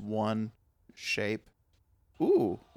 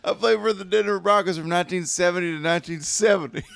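mock ad spokesman; 4 semitones higher, 3 dB louder than usual. Mocking partner's ad bit.

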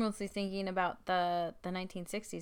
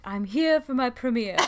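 haughty Travers quote; 3 semitones higher, 6 dB louder than usual. Retold or imitated. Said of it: "and she's like".

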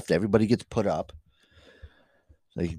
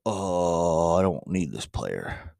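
mock coach; 6 semitones lower, 4 dB quieter, much slower than usual. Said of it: "walk in and go".

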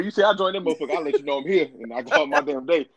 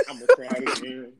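laughing. Retold or imitated. Repeats the echo line laughing.

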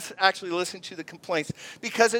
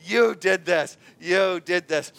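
blaming; 3 dB louder, slower than usual. Retold or imitated. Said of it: "notice the blaming".

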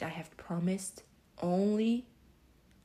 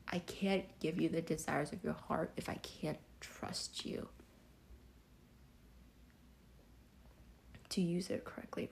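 whispering; 6 dB quieter than usual. Retold or imitated.

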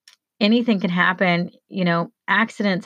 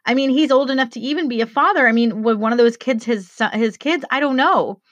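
choked up; 4 semitones higher than usual. Real, not acted. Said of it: "I get a little bit choked up".

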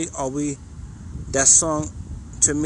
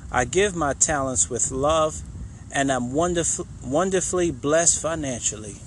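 slow affirmation said with love. Shown as a demonstration. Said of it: "Give it with love".

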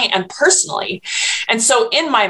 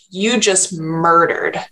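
slow, heavy accusation; mock-solemn verdict, said slowly; accusing friends; 2 semitones lower, slower than usual. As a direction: spell out the condemnation slowly like a judging friend. Friends condemning her as murderer.

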